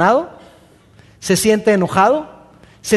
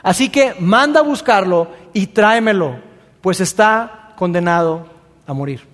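angry king. Acted. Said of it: "Saúl está muy enojado".

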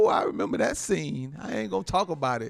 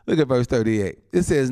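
ordinary talk, nothing marked

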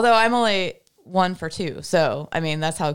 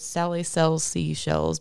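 slow careful tongue twister; 3 semitones lower, slower than usual. Shown as a demonstration. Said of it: "I couldn't even say the four words".

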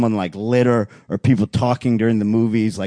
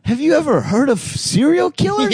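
incredulous. Retold or imitated. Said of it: "And I'm like".

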